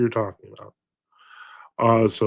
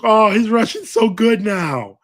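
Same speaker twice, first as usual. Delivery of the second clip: put-on higher, slower little old lady voice, a bit louder; 9 semitones higher, 4 dB louder, slower than usual. Little old lady praising his Russian, higher sweet voice. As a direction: coo it like a sweet old churchgoer. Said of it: "a little old lady who was just like".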